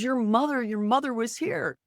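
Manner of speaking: high, urgent retold dad; excited dad. Dad telling his daughter her mother came through, high and eager. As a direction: push it high and eager like the awed father.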